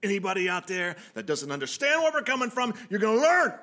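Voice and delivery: building to a loud high threat; wrestling promo. Acted. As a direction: warn them like a ring promo. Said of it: "promo, uh, cut one".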